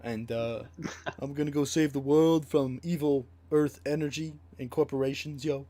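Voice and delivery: mock Black voice, Bernie-like; imitating an African American accent. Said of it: "my black voice sounds like Bernie Sanders".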